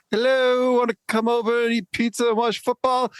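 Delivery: high, loud, chirpy hello; cheery alien phone call. Pretend. Pretend call to alien neighbours, high and bright. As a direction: greet the neighbours bright and eager. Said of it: "Can we call 'em up and say".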